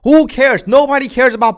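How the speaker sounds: exasperated. Real, not acted. Ranting about storyline.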